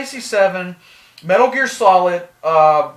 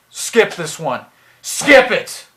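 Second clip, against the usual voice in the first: emphatic warning; 3 dB louder, slower than usual. Real, not acted. Reviewer telling viewers to avoid the console, emphatic. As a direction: drive the order home loudly.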